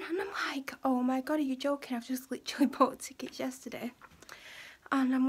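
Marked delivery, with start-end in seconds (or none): 0.8-3.9 higher, laughing exasperated outburst; half laugh, half shock at him; exasperated disbelief. Retold or imitated. Daughter reacting to dad refusing the tickets, exasperated laugh.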